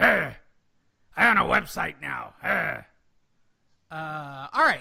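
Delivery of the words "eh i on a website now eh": low, loud, rough, slow drawn-out drawl. Joking about owning a website while walking around, Bob Arum impression. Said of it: "best Bob Arum impression".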